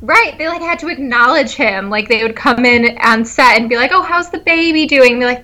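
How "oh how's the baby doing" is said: lightly voiced baby greeting, higher pitch; a hint of higher-pitched baby talk; crew greeting a baby. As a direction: imitate someone checking in on a baby.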